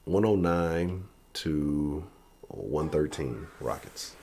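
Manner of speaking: slow, deliberate, each number spaced out; slow drawn-out score call. Shown as a demonstration. Vlogger unveiling his score prediction, slow and deliberate. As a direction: announce the score slowly for effect. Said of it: "That's gonna be my prediction".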